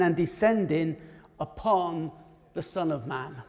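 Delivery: measured Bible reading with deliberate pauses; solemn, spaced-out reading; scripture reading. Acted. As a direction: read the passage aloud to a congregation, phrase by phrase. Reads scripture aloud to listeners.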